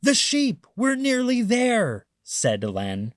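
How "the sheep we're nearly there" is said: much higher, louder burglar voice; an eager thief almost there; thief Len. Acted. Thief tells his partner, a high eager voice.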